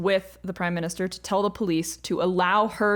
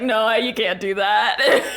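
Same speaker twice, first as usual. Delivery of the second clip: retold refusal through a laugh, slightly louder; 4 dB louder, slower than usual. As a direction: imitate him laughing as he says no. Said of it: "he's, like, laughing".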